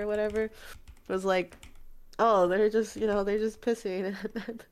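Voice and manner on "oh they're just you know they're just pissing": matter-of-fact, lightly acted reply; offhand quote, close to usual voice; imitated casual tone. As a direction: shrug it off as no big deal. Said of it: "How does he say that casually?".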